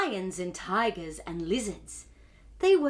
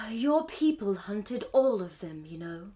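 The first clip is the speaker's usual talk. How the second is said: sighing owl. Acted. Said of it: "sighs the owl".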